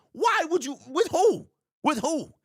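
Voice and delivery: high, exasperated disbelief; incredulous outburst. Real, not acted. Host questioning the team's running back cut, incredulous.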